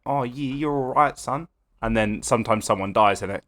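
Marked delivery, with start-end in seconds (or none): 0.1-1.5 a hint of an Australian lifeguard; slow, easygoing Australian reassurance; Australian accent. Imitating a lifeguard to a rescued swimmer, mild Australian accent. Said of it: "they're Australian. They're like".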